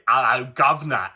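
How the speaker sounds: mock Cockney greeting; Cockney accent. Quoting what English people don't say, mock Cockney accent. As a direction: imitate a stock Cockney hello. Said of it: "good with my own and Cockney accents".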